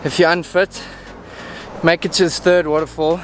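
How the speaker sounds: shallow breathing after a steep hike. Real, not acted. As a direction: talk between quick, winded breaths. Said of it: "as you can hear, I'm out of breath".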